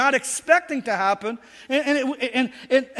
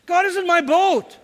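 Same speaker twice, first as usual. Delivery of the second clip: raised, higher call-out; call and response; 6 semitones higher than usual. Shown as a demonstration. Pastor leads congregation in a raised declaration. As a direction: lead the crowd in declaring it. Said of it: "Can you tell your neighbor that God is in their boat?".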